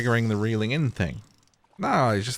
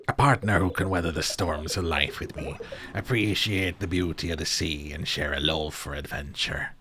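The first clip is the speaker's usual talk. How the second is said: soft, low seafarer voice; old sea-dog character; 4 semitones lower, 3 dB quieter than usual. Acted. Sailor tells the player about an ideal partner, wistful seafarer.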